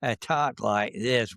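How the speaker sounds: slow, crisp upper Midwest Wisconsin accent. Shown as a demonstration. Showing the interviewer his crisp Wisconsin accent after moving north. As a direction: say it slowly and hard-edged, in a Wisconsin accent. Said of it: "accent from the upper Midwest is".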